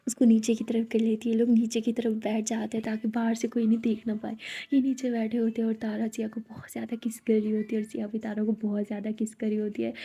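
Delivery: hushed, unvoiced story telling; whispered narration. A narrator's reading. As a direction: whisper the scene like a secret. Narrator whispers the intimate scene. (धीमी फुसफुसाती कथा)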